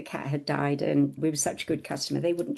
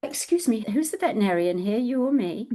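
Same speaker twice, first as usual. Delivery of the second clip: higher, lightly imitated indignant vet; 4 semitones higher, faster than usual. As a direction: pull rank as the vet, pitched up. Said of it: "in only Christina's voice".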